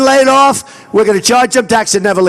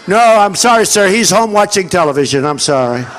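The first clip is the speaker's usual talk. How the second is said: lightly imitated aide, sinking lower; apologetic official; 4 semitones lower than usual. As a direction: make a meek excuse, dropping away at the end. Voices official apologizing to him.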